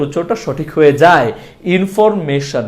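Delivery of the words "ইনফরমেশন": ইনফরমেশন with plain "me-shon"; no glide on মে in ইনফরমেশন; wrong pronunciation. Shown as a demonstration. Teacher rejecting the usual form, ইনফরমেশন with plain e. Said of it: "না বলে আমরা এটাকে বলবো".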